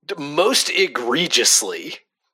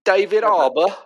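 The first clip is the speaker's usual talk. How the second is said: put-on higher, jokey Canadian accent on David Harbour; mock Canadian accent; 8 semitones higher than usual. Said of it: "in a Canadian accent".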